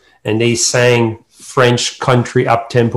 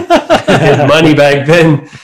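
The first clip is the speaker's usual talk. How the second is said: laughing; 5 semitones higher, 8 dB louder, slower than usual. Real, not acted. Laughing recalling first paid gig.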